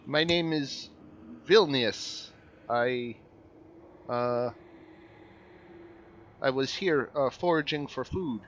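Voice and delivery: a hint of a nervous sick man; frail stranger voice.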